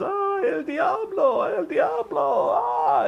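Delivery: high, slow, trembling cry of el diablo; old Mexican man's panic. Retold or imitated. Old man seeing a stranger, terrified, slow high cry. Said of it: "the old guy goes".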